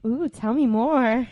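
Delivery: sultry flirting. Acted. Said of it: "sexy voice".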